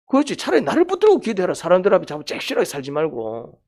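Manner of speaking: high, urgent voicing of God speaking to Jacob; God's command. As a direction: cry out the divine command.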